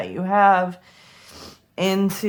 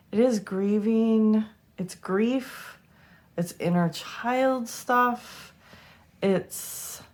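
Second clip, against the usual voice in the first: holding back tears; 3 semitones higher, 3 dB quieter, slower than usual. Real, not acted. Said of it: "get through this without crying".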